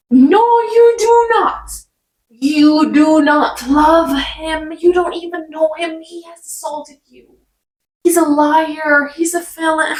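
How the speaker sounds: exasperated reader yelling at the book's heroine, outraged and near tears; outraged yelling at a character. Real, not acted. Outraged shout that ends close to crying.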